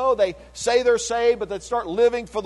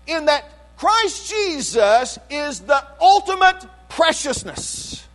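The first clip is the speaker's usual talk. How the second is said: higher, louder preaching, slow at the ends; preaching at full force; 6 semitones higher, 3 dB louder than usual. Acted. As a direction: drive it home from the pulpit. Preaching climax on Christ.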